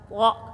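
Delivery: "Po" heavy and rounded. Shown as a demonstration. Teacher showing the heavy letter to students. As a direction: say it weighty. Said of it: "Po diberatkan".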